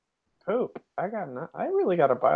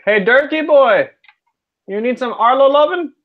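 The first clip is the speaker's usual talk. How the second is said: shouted playful call across the field; calling from far away; 7 semitones higher, 4 dB louder than usual. Acted. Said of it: "I'll shout over to Dirk".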